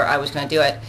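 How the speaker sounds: ordinary talk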